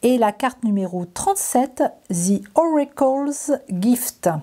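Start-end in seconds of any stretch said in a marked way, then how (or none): 2.1-4.3 slow, careful English card name in a French accent. Real, not acted. Reading an English card title aloud to viewers, slowly, in a French accent. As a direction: read "The Oracle's Gift" slowly in a French accent, every word spelled out. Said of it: "Et mon accent est toujours magnifique".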